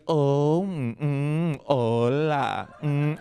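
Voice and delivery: drawn-out mournful Colombian lilt; sad Colombian sing-song. Retold or imitated. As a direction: imitate a family's sighing Colombian intonation. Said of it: "everyone speaks like that".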